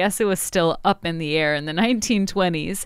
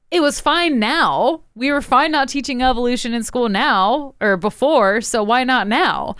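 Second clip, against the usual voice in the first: mocking paraphrase; 4 semitones higher than usual. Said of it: "basically saying".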